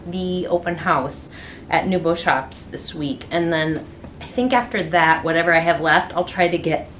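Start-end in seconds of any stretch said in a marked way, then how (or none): 6.1-6.9 words through a burp. Real, not acted. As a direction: talk as a burp comes up. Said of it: "I'm burping".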